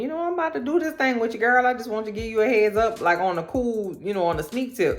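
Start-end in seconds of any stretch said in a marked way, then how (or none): 0.0-3.0 mock smooth confiding. Mock Devlin confiding in Penelope.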